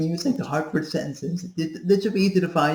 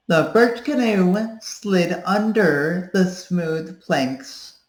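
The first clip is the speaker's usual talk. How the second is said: light voice read; 3 semitones higher, much slower than usual. Shown as a demonstration. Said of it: "do the Hartford sentence".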